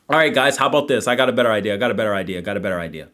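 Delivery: loud, hyped-up streamer delivery; rally the chat behind a big idea; excited pitch. Real, not acted. Hypes a new stream idea to chat.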